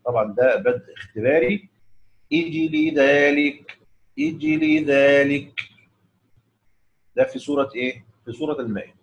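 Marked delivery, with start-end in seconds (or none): 2.3-5.6 slow أجل ذلك started with a kasra, "ijli dhalika"; test start. Shown as a demonstration. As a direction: begin on أجل with a kasra hamza. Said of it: "يبقى هيبدأ هكذا".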